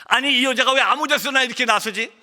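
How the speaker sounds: high-pitched indignant grumbling; retold anger. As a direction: act out an annoyed husband fuming. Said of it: "화가 났습니다".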